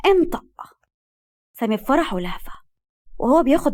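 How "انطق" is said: high, impatient order; out of patience. A narrator's reading. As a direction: demand an answer at once. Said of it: "وقالت له بنفاذ صبر". (أمر بنفاذ صبر)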